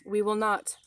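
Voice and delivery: declaiming. Shown as a demonstration. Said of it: "So let's start with".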